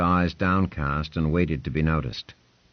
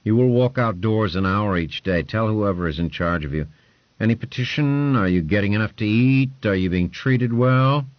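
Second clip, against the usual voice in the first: louder, higher lordly voice; commanding lord; 4 semitones higher, 5 dB louder than usual. Acted. Lord Ponce giving orders to Hugh, a loud lordly voice.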